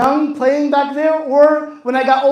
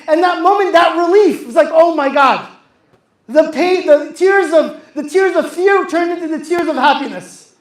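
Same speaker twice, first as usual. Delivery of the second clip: rising fervent preaching; 3 semitones higher, 4 dB louder than usual. Real, not acted. Sermon builds to emotional peak.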